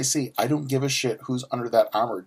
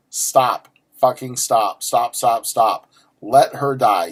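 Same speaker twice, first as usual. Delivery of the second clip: ranty; 4 dB louder, slower than usual. Real, not acted. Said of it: "Ranty mode".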